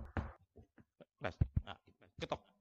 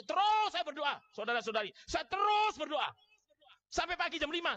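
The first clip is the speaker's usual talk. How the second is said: higher and louder, slowing down; rising fervor; 7 semitones higher, 3 dB louder than usual. Acted. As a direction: build the long night of prayer. Intensifying over the prayer night. (makin tinggi dan keras, pelan-pelan)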